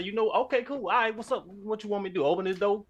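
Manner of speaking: mock Louisiana Southern accent. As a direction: play up a thick Southern accent for the wife. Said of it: "Got the southern".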